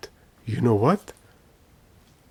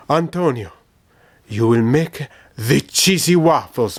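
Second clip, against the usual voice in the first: talking to himself. Retold or imitated. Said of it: "I said to myself".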